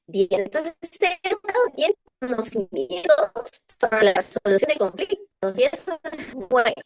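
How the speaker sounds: breaking up on a bad video call; glitchy, stuttering connection with echo; choppy audio with echo. Real, not acted. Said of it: "Se escucha entrecortado y con eco".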